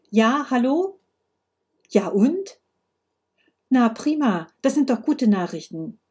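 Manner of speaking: a touch of brisk phone chat; Frau Moser on the phone. Acted. Voices character on phone.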